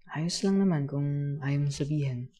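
slow, understanding kuya; easy, slowed reassurance; gentle reassurance. Acted. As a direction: let the child off the hook, unhurried. Gently lets child stay silent.

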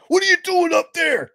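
high, loud taunting shout; imitating a wrestler taunting from above; taunting call. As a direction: yell up at him mockingly. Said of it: "He's like".

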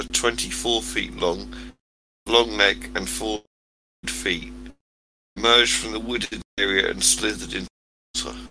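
audio dropping out on the call; cutting out. Real, not acted. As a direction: voice breaking up, too far from the mic. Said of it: "You keep cutting out".

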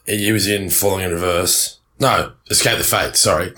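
groggy hungover voice; talking through a hangover. Real, not acted. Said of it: "I'm backing up from a hangover here".

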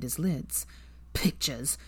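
hushed, haunted whisper; Weasley, lost in memory, whispers. Acted. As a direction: breathe it as if seeing visions. Weasley mumbling, eyes closed.

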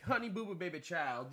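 mock Georgia accent; Southern accent. Shown as a demonstration. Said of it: "Do a Southern accent".

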